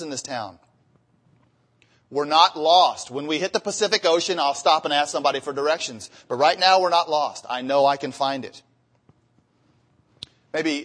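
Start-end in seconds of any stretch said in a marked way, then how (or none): 2.1-4.8 stubborn insistence. Retold or imitated. Stubborn husband refusing directions. 6.3-8.6 stubborn insistence. Retold or imitated. Stubborn husband refusing directions.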